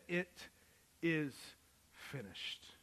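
slow, weighty reading of the final words; solemn last words. Acted. Preacher quoting Jesus's last cry, slow and solemn. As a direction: let the words land slowly.

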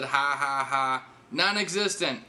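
exaggerated read-out laugh, last word stretched; mock typed laughter. Comedian reading his match's message aloud, mock laughter. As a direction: spell out the laugh as a slow joke.

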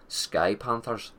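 slow, hammed-up Irish accent; mock Irish accent, drawn out; thick Irish accent. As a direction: draw it out in a thick Irish brogue. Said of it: "thick Irish accent".

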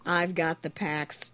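hoarse from a cold, barely talking; sick voice. Real, not acted. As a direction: talk through a sore throat with a cold. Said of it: "I can barely talk".

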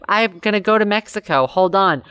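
a light robot voice, lifted pitch; chirpy robot voice, half-hearted. Retold or imitated. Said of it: "Was he doing a robot voice?".

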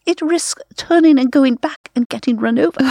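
lightly imitated elegant British radio lady. Imitating the county radio nature host in a light elegant British accent. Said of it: "she very elegantly said".

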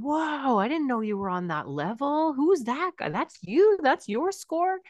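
impressed parent. Shown as a demonstration. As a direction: gush over the kid's game score. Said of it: "leaning over their shoulder and going".

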